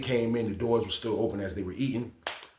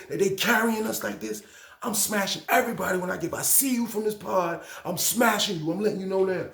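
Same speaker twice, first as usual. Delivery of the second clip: raised, hyped-up threat to the whole pod; imitating an angry inmate's threat, higher and heated; threatening warning; 7 semitones higher than usual. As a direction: warn everyone you'll fight them, pitched up and pushing. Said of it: "New York was like".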